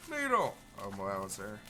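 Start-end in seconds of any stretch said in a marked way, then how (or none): 0.1-0.5 high excited yell; excited shout. Real, not acted. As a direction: call it out with glee. Excited call of a name.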